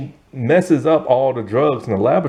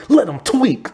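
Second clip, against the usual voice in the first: higher, offhand, let it slide; lazy stoner line; 10 semitones higher than usual. Retold or imitated. Zeke brushing off his friend's fear, lazy and casual. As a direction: voice the stoner shrugging it off. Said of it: "Zeke is all like".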